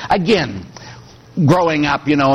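ordinary talk

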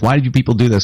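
mock angry. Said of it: "He's not just mad, like".

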